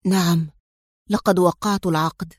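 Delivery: low-key, sorrowful confession; sad. A narrator's reading. Bronco confessing he signed the contract, sad. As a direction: own up with understated sadness. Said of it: "وقال في حزن".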